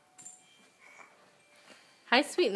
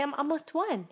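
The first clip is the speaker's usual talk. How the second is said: softer prompted line; feed the words gently, quietly; 2 semitones higher, 7 dB quieter than usual. Shown as a demonstration.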